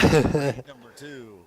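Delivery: slow, loud arena announcement; announcer call. Acted. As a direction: boom it to the crowd. Announcing the next heat.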